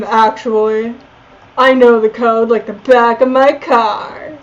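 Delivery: loud, pushy heist guy; gruff Carl voice. Acted. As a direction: play the nervous crook loud. Game master voices Carl.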